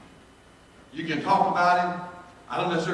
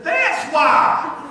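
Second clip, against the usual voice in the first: laughing exclaim; 13 semitones higher, 11 dB louder than usual. Retold or imitated. Friend laughing reply.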